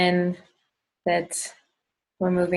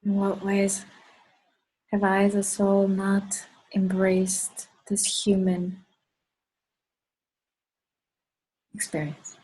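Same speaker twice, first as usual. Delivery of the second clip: guided meditation. Acted. Leader asks the group in what ways they have not, guided meditation. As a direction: pose the question and leave room to ponder it.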